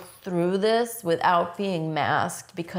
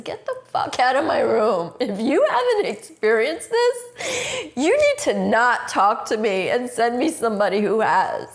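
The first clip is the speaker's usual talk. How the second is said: retold angry outburst; 4 semitones higher, 4 dB louder than usual. Retells yelling at social worker.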